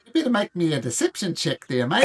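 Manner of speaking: game master lightly keeping the Aussie voice; terrible Australian accent. Acted. Game master calls a deception check, mild fake Australian accent. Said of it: "My terrible Australian accent".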